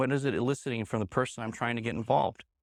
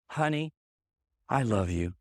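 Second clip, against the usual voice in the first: loving version; 2 semitones lower than usual. Shown as a demonstration. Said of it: "means two entirely different things".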